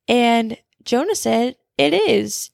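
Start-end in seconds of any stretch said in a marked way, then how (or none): 1.8-2.5 a little sassy. Retold or imitated. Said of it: "being a little sassy".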